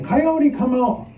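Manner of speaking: high, drawn-out holler; agonized holler. Acted. Monster to Coyote cutting at his heart, agonized holler. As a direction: call out slowly as if in agony. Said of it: "rolled around in agony, hollering".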